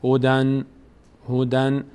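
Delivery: هدن level, ending in a sounded N; tanvin demo. Shown as a demonstration. Teacher showing the nun must be heard, careful demo. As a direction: say "ho-dan" for هدن and close on the N. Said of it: "صدای نون باید بیاد".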